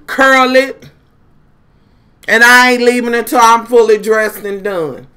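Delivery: loud sassy defiance, each item hammered; defiant rant. Retold or imitated. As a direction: lay down the law to the staff, loud.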